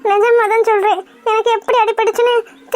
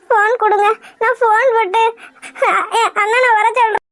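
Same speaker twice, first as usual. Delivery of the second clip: crying. Acted. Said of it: "அழுகாம இரு".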